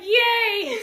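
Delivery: high, loud imitated child's cheer; Malia. Child getting treats from mom, imitated excited cheer. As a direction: squeal a little kid's delighted yay. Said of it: "Malia's like".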